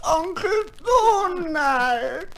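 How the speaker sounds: drawn-out, fake-tearful plea; milk the sad goodbye; mock sorrow. Nephew to Uncle Donald, fake crying. Nephews pretend grief over piano.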